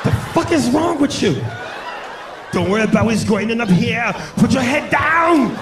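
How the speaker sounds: lightly put-on tough voice, stretched at the end; mock action-hero bark. Ordering a partner during sex, mock commanding. Acted shout in a bedroom bit.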